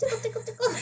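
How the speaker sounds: tiny high, soft squeak; playful squeaky singsong; teasing tickle voice. Pretend. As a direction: tease in a very high little voice. Teasing someone about to sneeze.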